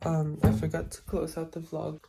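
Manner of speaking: just woke up, dry throat; sleepy morning voice with a dry throat. Real, not acted. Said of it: "my throat is very much dry".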